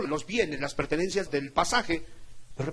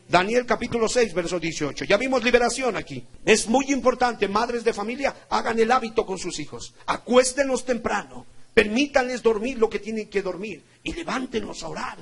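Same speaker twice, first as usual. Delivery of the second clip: raised, emphatic sermon voice; forceful preaching; 4 semitones higher, 6 dB louder than usual. Real, not acted. Preacher urging mothers to get children praying early, forceful preaching. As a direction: drive the instruction home.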